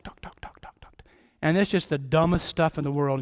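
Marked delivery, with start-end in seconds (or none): 0.0-1.0 softer, whispered talk talk talk; whispered chatter. Pretend. Pastor mocking someone who never stops talking, whispered. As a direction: let the words fade into a whispered babble.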